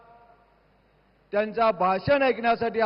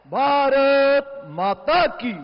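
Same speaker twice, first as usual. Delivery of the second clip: higher, slow, loud rally call; roaring rallying speech; 4 semitones higher, 4 dB louder, much slower than usual. Real, not acted. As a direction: roar it out even higher. Speaker repeats slogan. (ऊँचा गरजता नारा)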